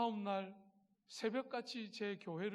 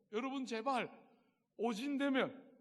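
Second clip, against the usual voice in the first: louder, pleading call to the flock; exasperated plea; 5 semitones higher, 6 dB louder than usual. Retold or imitated. Preacher retelling his sermon to the congregation, exasperated plea. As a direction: beg them, half exasperated. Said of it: "성도들에게 막 설교하면서 막 말했어요".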